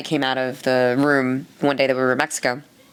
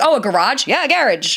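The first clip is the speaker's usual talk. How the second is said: realizing surprise; 7 semitones higher, 4 dB louder than usual. Retold or imitated. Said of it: "I'm like".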